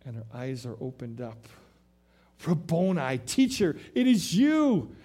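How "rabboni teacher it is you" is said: joyful recognition. Acted. Mary recognizes risen Jesus.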